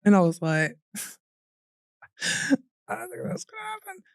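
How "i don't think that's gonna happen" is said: sarcastic. Retold or imitated. Sarcastic reply to hospital staff.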